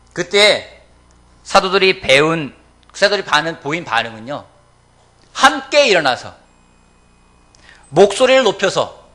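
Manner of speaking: loud, measured phrases with weighty pauses; emphatic preaching. Real, not acted. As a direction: drive each phrase out to the congregation.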